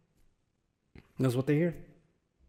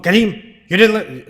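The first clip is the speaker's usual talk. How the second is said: scolding; 4 semitones higher, 7 dB louder than usual. Retold or imitated. Parent scolding teen coming home.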